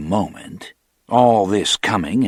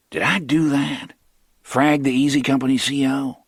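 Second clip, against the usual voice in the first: higher, wondering pitch; raised questioning; 6 semitones higher than usual. A narrator's reading. Chucky asking himself, raised and puzzled. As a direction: ask it up high, puzzled.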